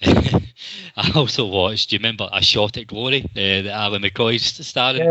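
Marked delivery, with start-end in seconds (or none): 0.0-1.9 drawn out slowly through a laugh; slow laughing repeat. Acted. Host admits the film, laughing slowly. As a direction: stretch it out, chuckling at the confession.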